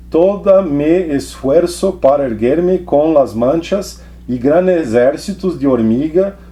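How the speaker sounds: slow, measured reading in Portunhol; careful recital of mixed Spanish-Portuguese prose; literary reading. Acted. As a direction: read it aloud deliberately, drawing out the Guarani words. Reads the novel aloud.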